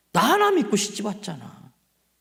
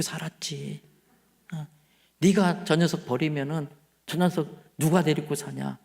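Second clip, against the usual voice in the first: tender divine comfort. Acted. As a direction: comfort her like a gentle father. God's voice comforting the praying wife.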